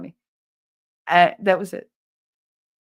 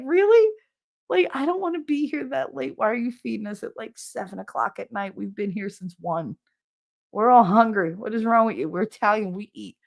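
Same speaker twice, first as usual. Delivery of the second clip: exasperated rant; 4 semitones higher than usual. Retold or imitated. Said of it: "I was like".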